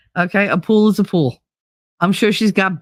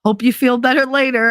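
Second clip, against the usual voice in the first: sweet placating voice; 7 semitones higher than usual. Retold or imitated. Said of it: "And he was just like".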